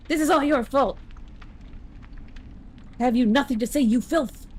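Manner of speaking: hammed-up righteous outrage; angry accuser. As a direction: act out a scornful accusation. Voices an angry game character.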